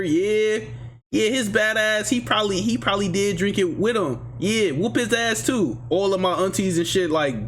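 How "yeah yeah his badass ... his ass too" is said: higher-pitched imitation of piling-on relatives; mock egging on. Relatives in mom's ear urging a whooping, mock egging on. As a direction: chime in as meddling family, lightly acted.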